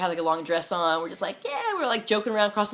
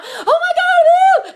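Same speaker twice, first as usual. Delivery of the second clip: loud, very high, drawn-out whoop; jumping-up elation; 15 dB louder, much slower than usual. Retold or imitated. Healed lady jumping around the store, ecstatic whooping. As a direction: whoop in ecstatic amazement, imitating. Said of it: "like, jumping up around".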